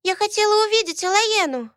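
put-on high childish voice, insisting; a small girl digging her heels in; stubborn little girl. Girl in blue insists to her sister, stubborn child voice. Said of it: "упрямо сказала девочка в голубом".

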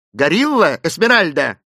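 high, loud incredulous question; startled question. A narrator's reading. Mr. Philander asking Esmeralda about a gorilla, startled. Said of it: "спросил мистер Филандер".

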